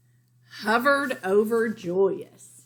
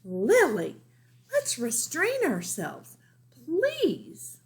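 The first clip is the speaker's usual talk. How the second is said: ending in a whisper; mock parental hush; 8 semitones higher, slower than usual. A narrator's reading. Parents gently hushing Lily, voiced sweetly.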